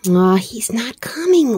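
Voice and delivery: slow breathy whisper of doubt. A narrator's reading. Little Bear whispers to Edith while hiding. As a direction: whisper it, giving up hope. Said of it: "whispered Little Bear".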